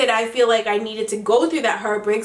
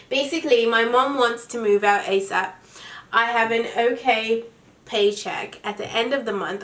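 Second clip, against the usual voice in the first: reading aloud in a put-on British accent. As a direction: read it like a Brit. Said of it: "read it in my British accent".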